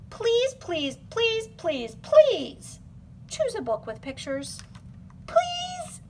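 high, whiny begging; pleading. Acted. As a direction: beg like a desperate child. Begging the child.

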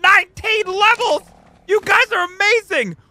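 proud owner gushing at his creatures; excited praise. Real, not acted. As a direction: cheer for your pets.

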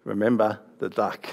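softly voiced sly warning, barely a whisper; a little sister's hushed threat; a hint of a hushed tease; mock whisper. A narrator's reading. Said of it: "Again, she whispered".

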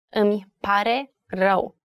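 "Îmi pare rău" slowed, with a gap between each word. Shown as a demonstration. Teacher showing learners the three words, word by word. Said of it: "Three words".

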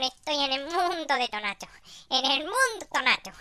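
toque a lo Chiquito, tono más alto; imitando a Chiquito. Acted. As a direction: habla como Chiquito, agudo y animado. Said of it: "Tienes que hablar como chiquito". (imitación ligera de Chiquito)

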